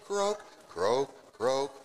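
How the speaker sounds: playful frog croaks. Acted. Teacher croaking like a frog for the kids.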